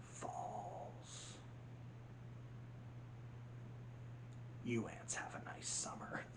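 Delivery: villain threatening the ant colony; sinister whisper. Retold or imitated. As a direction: draw out each word like doom. Hopper's final threat.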